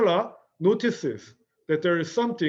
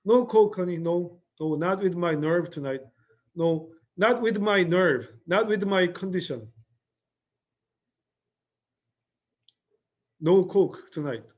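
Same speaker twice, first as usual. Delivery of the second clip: emphatic refusal; 3 semitones higher, 4 dB louder than usual. Acted. Blanche refusing Coke nervously.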